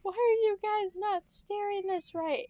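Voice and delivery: high, loud angry complaint. Retold or imitated. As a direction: scold the kids angrily. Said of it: "he would get so mad".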